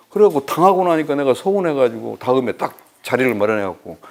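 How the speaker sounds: ordinary delivery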